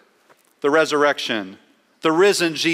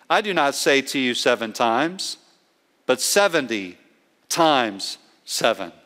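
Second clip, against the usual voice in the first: measured emphasis, dropping low on "times seven"; emphatically emphatic; 3 semitones lower than usual. Retold or imitated. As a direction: set "seventy", "times seven" apart with weighty pauses. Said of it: "Jesus was being emphatically emphatic".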